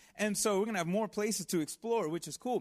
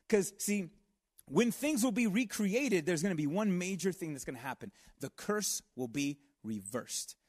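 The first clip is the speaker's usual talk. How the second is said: ordinary talk, nothing marked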